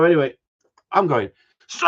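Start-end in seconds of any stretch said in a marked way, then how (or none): 1.7-1.9 calling out across a crowded mall; shouting a name. Retold or imitated. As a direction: yell the name to be heard. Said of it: "At the top of me freaking voice".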